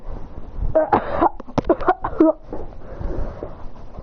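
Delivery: breathy, broken coughing; acted coughing fit. He recovers after breaking the window, acted coughing. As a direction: cough in long ragged bursts.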